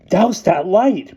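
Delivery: sharp, high angry whisper-shout; angry gasp. A narrator's reading. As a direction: hiss it out angrily. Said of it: "Bruno gasped angrily".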